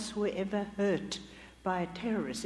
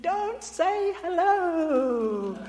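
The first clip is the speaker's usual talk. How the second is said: much higher, louder, very slow shout; 10 semitones higher, 10 dB louder, much slower than usual. Retold or imitated. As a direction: yell it in alarm. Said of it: "Bob shouted".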